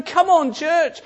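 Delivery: high, loud cheer of the crowd; rally them like fans in the stands; shouting witnesses. Pretend. The witnesses shouting the church on, high and loud. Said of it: "They're shouting".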